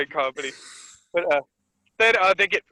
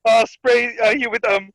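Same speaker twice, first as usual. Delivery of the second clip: boastful; 5 semitones higher, 4 dB louder, slower than usual. Retold or imitated. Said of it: "He's like".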